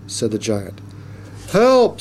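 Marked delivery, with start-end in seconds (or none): 1.5-2.0 high, louder cry of alarm; cry for help. A narrator's reading. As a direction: call out for rescue. Reporter cries for help from crane.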